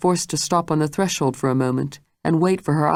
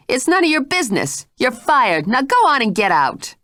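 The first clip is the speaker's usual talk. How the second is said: much higher, louder furious order; shrill angry cry; 9 semitones higher, 3 dB louder than usual. Acted. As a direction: fire her on the spot, voice rising. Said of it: "she cried".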